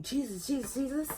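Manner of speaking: mock scream. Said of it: "are you really screaming".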